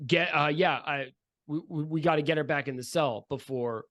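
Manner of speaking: stumbling, unfinished order; halting, unsure instruction; hesitant. Acted. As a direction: hesitate and restart, then leave it hanging. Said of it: "you see him hesitate and say".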